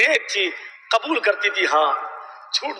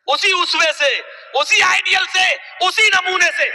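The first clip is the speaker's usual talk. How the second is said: escalating sermon shout; rising preacher shout; 4 semitones higher than usual. Real, not acted. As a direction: hammer each phrase to the crowd. Preacher building to climax.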